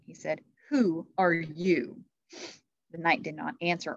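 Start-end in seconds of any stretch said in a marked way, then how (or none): 0.7-2.0 slow, measured kingly question; calm, steady. A narrator's reading. King Arthur questions the strange knight, calm and steady. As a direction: ask it slowly and steadily, each word given room. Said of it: "he spoke in a calm, steady voice".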